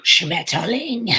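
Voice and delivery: slow, drawn-out, mock-harsh German; harsh German word. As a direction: spit out the German word like a joke about how harsh it sounds. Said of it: "he's like".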